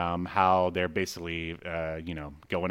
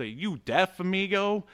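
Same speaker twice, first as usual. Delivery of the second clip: mock Hispanic accent; 9 semitones higher than usual. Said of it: "am I supposed to be doing a Hispanic accent?".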